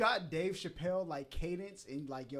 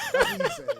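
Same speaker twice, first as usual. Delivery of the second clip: laughing; 10 dB louder, slower than usual. Real, not acted. Laughing at friend's view.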